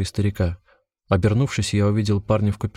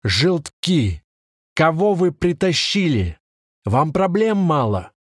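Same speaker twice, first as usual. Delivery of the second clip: screaming; 8 semitones higher, slower than usual. A narrator's reading. Senior cop yells at the rookie officers, furious. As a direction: explode at the rookies. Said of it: "он закричал на молодых милиционеров".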